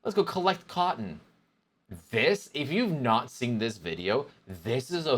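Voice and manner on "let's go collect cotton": excited quote. Retold or imitated. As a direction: hype it up like a kid at a field trip. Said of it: "It's like".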